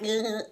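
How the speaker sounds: imitated grunt of being shaken. Girlfriend being shaken on the bed, imitated grunt. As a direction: let out a short jolted groan. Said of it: "like that shit".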